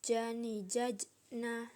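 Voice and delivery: "jajna" with an echoing release after the middle j; bouncing j. Shown as a demonstration. Teacher shows a vowelless jim, bouncing the j in "jajna". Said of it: "suaranya mantul".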